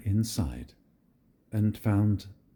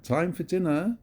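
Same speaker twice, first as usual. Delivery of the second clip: dad calling up the house, pitched high; a father calling his son in for dinner; 7 semitones higher than usual. A narrator's reading. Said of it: "Dad called".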